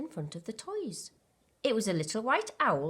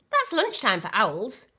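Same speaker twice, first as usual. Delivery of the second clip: laughing; 4 semitones higher, 6 dB louder than usual. A narrator's reading. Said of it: "laughed Hoot".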